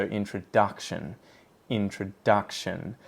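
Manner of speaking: "introduction" slowly, with heavy stress on DUC; in-truh-DUC-shun for "introduction", carefully shown. Shown as a demonstration. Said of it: "duck has the really heavy primary stress".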